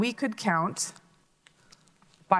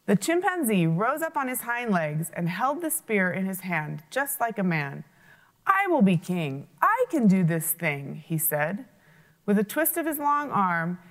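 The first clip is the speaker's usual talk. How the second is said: lively read-aloud storytelling; animated children's storyteller; story narration. A narrator's reading. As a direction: tell the fable to children with voices. Reads folk tale aloud.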